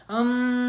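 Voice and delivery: loud resonant hum. Shown as a demonstration. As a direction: hum so the face buzzes. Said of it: "I can feel a vibration".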